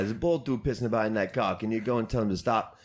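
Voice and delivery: a hint of imitated New York accent. Doorman asking another doorman for help, light New York accent. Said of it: "I don't know why I'm doing New York accent".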